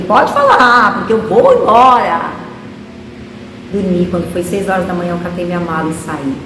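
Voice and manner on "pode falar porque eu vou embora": defiant retort. Retold or imitated. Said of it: "eu falei".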